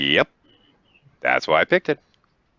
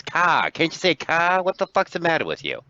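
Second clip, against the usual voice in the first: exasperated; 9 semitones higher than usual. Acted. Exasperated yelling at the Boston joke.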